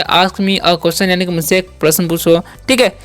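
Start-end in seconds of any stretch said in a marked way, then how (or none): 0.0-1.0 slow example sentence. Shown as a demonstration. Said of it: "तो बोलेंगे".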